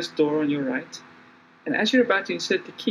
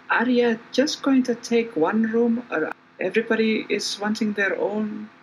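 innkeeper's daughter; 4 semitones higher than usual. Acted. Game master voices innkeeper's daughter.

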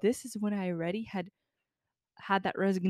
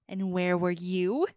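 stern demand; 2 semitones lower, 5 dB louder, much slower than usual. Retold or imitated. Boss demands where she was.

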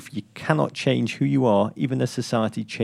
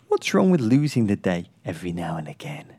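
whisper; 6 semitones lower than usual. Acted. Whispered sign-off.

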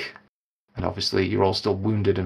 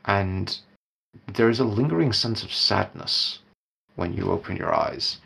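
somber narration. A narrator's reading. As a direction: set a sad, heavy scene gently.

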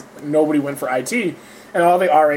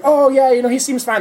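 mock casual paramedic; 9 semitones higher, 3 dB louder than usual.

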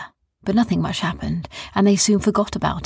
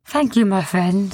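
thanks with drooping ears; disappointed Sniz; 3 semitones higher, slower than usual. A narrator's reading. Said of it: "said Sniz as he sat down".

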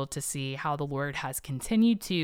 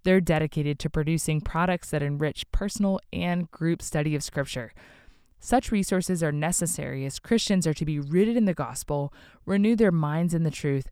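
ad read. Acted. Sponsor ad read.

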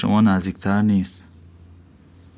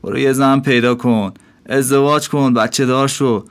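a higher, firm innkeeper voice giving blunt advice; lecturing innkeeper; 3 semitones higher than usual. Acted. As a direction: preach at the dervish, half scolding.

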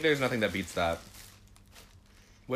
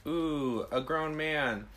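put-on swooning teen; 7 semitones higher, much slower than usual. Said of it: "I was like".

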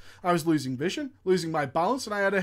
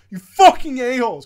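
louder furious curse; angry shout; 2 semitones higher, 9 dB louder than usual. Acted. Guild leader cursing the couple, loud and furious. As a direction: bark the insult out loud.

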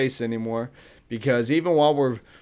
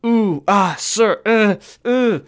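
mock-nervous hemming, a touch higher; imitating a squirming worker; stammering clerk; 4 semitones higher, slower than usual. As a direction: stall with ums and ahs. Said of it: "when you".

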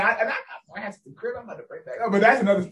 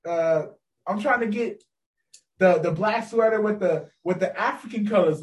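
imitating his friend's talk; 3 dB louder than usual. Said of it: "this is how he talks".

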